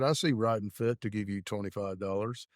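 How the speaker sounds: lightly drawled hillbilly offer; hillbilly accent. Retold or imitated. Prank-calling Billy with a money offer, hillbilly accent. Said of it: "I put on my best hillbilly accent".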